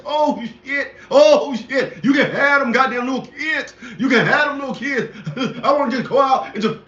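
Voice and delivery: lightly voiced comic grumbling with laughs; Bernie Mac voice. Ranting to viewers about kids, in a light Bernie Mac imitation. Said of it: "let me go my Bernie Mac voice".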